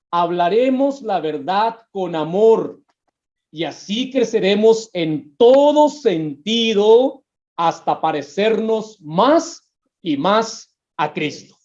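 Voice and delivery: slow, weighty reading of the verse; slow scripture reading. Acted. A preacher reading the verse to his church, slow and weighty. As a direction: lean on each word of scripture.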